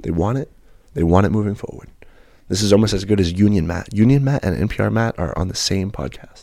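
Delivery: lightly voiced public radio host; a measured mock NPR delivery; a hint of soothing radio host. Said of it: "because this voice is".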